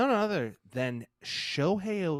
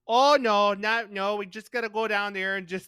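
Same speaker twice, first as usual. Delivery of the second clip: lightly hammed-up Midwest woman saying tacos; a hint of a chatty Midwest mom; 5 semitones higher than usual. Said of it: "typical Midwest woman".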